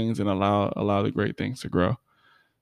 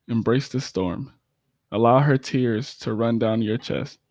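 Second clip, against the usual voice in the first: poem recital. Acted. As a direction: perform it like a spoken word poem. Recites her own poem.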